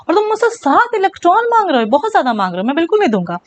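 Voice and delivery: high-pitched start, playful protest at being asked too much; lightly hammed-up indignation; mock indignant refusal. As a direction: act out a put-upon refusal. Atom refusing excessive demand.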